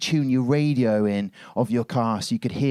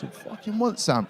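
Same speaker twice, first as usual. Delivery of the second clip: punch bag taunting; 7 semitones higher, 5 dB quieter than usual. Retold or imitated. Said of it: "Like that".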